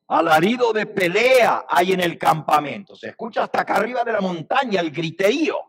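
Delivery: high, loud call of alarm; alarmed report. Acted. Joshua telling Moses of uproar in camp, alarmed. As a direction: cry out the news urgently.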